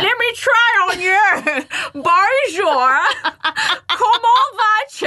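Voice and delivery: loud, high, slow mock French; bad French accent. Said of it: "it's so bad".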